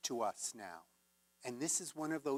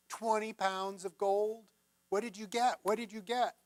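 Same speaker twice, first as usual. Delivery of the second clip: rising, louder eager demanding; the mother's guesses climb to a loud eager demand; eager mom; 6 semitones higher, 4 dB louder than usual. Acted. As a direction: press for the answer, getting more excited.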